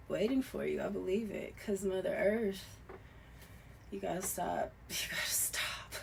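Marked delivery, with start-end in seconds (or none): 4.8-5.9 hushed, amused scold; laughing whisper. Real, not acted. Reader telling viewers to stop stealing, whispered with a laugh. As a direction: repeat "You gotta stop" in a whispered chuckle.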